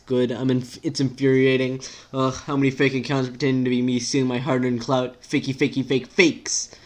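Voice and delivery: lightly voiced indignant rant; exasperated character. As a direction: complain in growing irritation.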